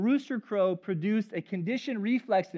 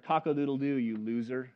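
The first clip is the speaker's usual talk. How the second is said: a mock rooster crow sneering at Peter, kept low; taunting rooster; 5 semitones lower than usual. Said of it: "Peter woke up and he heard".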